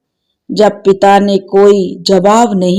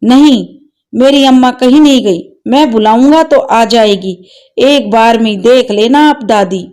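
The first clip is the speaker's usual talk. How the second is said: tearful shout, fast, fading; a boy refusing the truth in tears; crying shout; 3 semitones higher than usual. Acted. Grandson cries out at grandmother in denial, tearful shout. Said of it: "रोते-रोते चिल्लाकर बोला".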